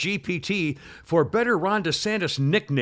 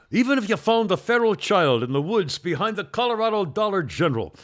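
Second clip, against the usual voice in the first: a touch of Irish brogue, slightly raised; Liam Neeson brogue; 3 semitones higher, 4 dB louder than usual. Retold or imitated. Reading a Neeson quote for his co-host, light Irish brogue. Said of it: "Do it in his accent".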